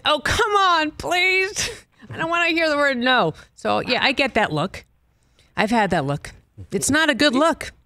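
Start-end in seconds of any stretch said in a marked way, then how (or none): 0.0-3.3 retold pleading. Begging Nicholson in retold scene.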